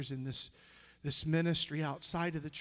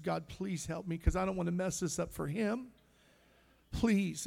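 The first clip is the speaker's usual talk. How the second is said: desperate plea; 4 semitones higher than usual. Retold or imitated. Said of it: "I said".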